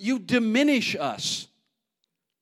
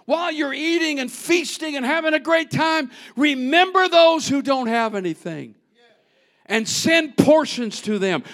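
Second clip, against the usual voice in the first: lightly voiced Nehemiah; 6 semitones higher, 4 dB louder than usual. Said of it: "And he says".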